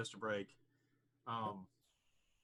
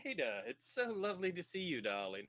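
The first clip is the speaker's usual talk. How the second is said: effusive club host; 2 semitones higher than usual. Acted. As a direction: greet a favourite guest with swooping delight. Game master plays club owner Bishop.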